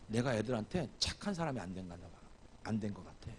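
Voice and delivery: low, subdued voice of a son; lightly acted, subdued confession; imitating quiet admission. Voices son's hesitant realization.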